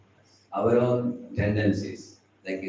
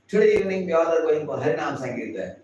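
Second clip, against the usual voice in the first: announcement; 6 semitones higher, 4 dB louder than usual. Acted. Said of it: "then you make announcement".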